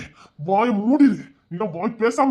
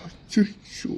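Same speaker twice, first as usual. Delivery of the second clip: breathless whispered oh no, regretful; shocked whisper; 7 dB quieter, much slower than usual. Acted. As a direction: whisper it in dismay after the blow. Husband after hitting her. (அடித்த பின் கணவன் பதறி கிசுகிசுப்பு)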